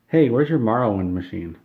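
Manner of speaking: loud, imitated customer demand; mock demand. Customer asking staff for a game machine, loudly demanding.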